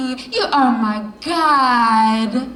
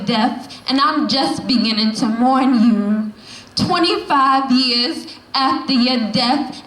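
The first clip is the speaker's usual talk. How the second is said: spoken word poem; 2 semitones higher than usual. Acted. Poet addressing her late mother, in a rising spoken word recital. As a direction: slam poetry delivery, rhythmic and building.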